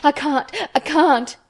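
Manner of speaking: high, halting, tearful gasps; distressed, breathless boy; gasping. A narrator's reading. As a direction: stammer it out as if choking on sobs. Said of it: "he gasped and stopped".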